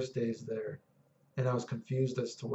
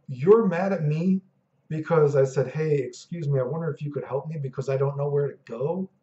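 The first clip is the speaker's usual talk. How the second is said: mock disbelief; 3 semitones higher, 5 dB louder than usual. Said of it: "And I was like".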